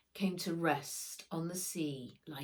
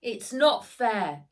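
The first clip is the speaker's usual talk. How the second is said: upset protest; 5 semitones higher, 10 dB louder, slower than usual. Acted. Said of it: "Max's heart sank like a stone".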